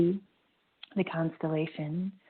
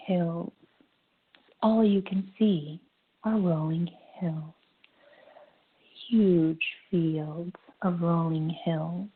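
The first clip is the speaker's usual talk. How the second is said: guided meditation. Acted. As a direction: ease everyone into the breath, gently.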